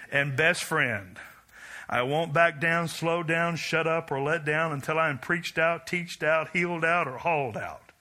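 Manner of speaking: building manifesto, preached with rising force; preaching recital. Acted. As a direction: proclaim it like a credo from the pulpit.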